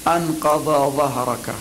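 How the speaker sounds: أنقض ظهرك, slow, with a full emphatic ض and ظ; careful articulation. Shown as a demonstration. Teacher asking how to say the verse, slow and exact. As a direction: spell out أنقض ظهرك letter by letter. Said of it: "فكيف أقول".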